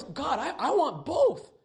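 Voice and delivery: laughing admission. Retold or imitated. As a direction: sheepishly laugh out wanting both. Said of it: "And of course".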